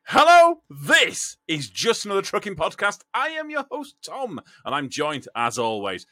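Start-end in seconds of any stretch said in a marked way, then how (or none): 0.0-4.4 loud, high, mock seductive podcast opener; seductive host voice. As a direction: croon the show's welcome like a smooth radio host. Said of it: "It was supposed to be less seductive than that".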